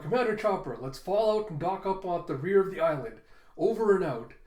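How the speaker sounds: lightly projected radio call; calling out orders. Acted. Frankie calling Commander Chopper to move out, projecting.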